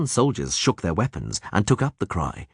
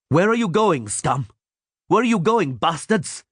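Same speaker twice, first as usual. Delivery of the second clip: officer's yell; 10 semitones higher than usual. A narrator's reading. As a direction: bark at fleeing soldiers. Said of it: "he yelled".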